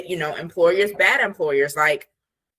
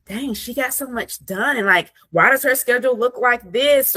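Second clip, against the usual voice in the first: envious disbelief; 7 semitones higher than usual. Retold or imitated. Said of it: "you're like".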